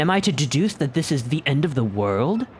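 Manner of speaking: put-on British accent. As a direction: read it like a proper Brit. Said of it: "I gave him, like, a British accent".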